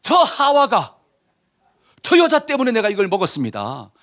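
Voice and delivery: pin it on her as an excuse; blame-shifting Adam. Acted. Adam blames Eve before God, protesting his innocence. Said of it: "첫 마디가 뭐예요".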